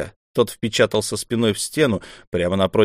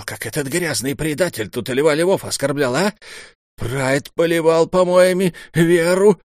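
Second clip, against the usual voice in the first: outraged mentor; 7 semitones higher than usual. A narrator's reading. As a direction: play the mentor in mock outrage. Наму's outraged tale.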